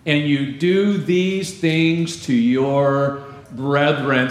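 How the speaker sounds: slow, emphatic Bible reading; scripture reading. Acted. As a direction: read the passage out slowly, phrase by phrase. Reads scripture aloud to congregation.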